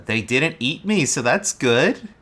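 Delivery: lightly voiced, uncertain character; hesitant Lulu reply. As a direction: puzzle it out slowly, pitch lifting. Game master voices Lulu's answer.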